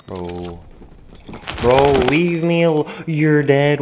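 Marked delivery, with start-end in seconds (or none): 1.6-3.8 loud, higher furious gamer yell; angry yell. Real, not acted. Gamer yelling at the kid who killed him, furious. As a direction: blow up at the player who killed you. Raging at opponent in game.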